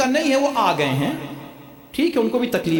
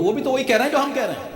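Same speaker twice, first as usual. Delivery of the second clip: usual speaking voice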